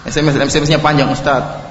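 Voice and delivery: low, soft anxious confession; regretful husband confessing to the preacher; worried questioner. Retold or imitated. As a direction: read the message low and hushed like a nervous husband. Sampai ada yang S M S.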